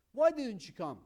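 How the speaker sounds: loud angry reproach; angry demo. Shown as a demonstration. Teacher demos an angry friend: loud reproach. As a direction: snap at a friend for skipping the party. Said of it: "you understand it from the tone of my, pitch of my voice".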